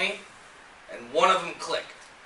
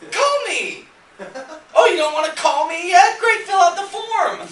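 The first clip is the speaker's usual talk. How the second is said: high, loud sales pitch, building to a shout; hammed-up pitchman voice, escalating with each offer; eager web page; 7 semitones higher, 6 dB louder than usual. Landing page pitching a carpet cleaner to a visitor, eagerly hammed up. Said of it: "the page is gonna say".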